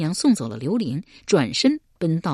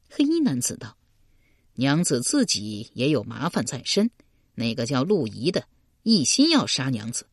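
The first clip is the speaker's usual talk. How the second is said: 黑衣男子声; 3 semitones lower than usual. Acted. 黑衣男子低沉的角色声.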